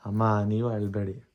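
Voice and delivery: soft, slow soothing plea; gentle consoling. Real, not acted. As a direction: softly comfort someone in tears. Consoling a crying mother. (ಮೆಲ್ಲಗೆ ಸಮಾಧಾನ ಮಾಡುತ್ತಾ)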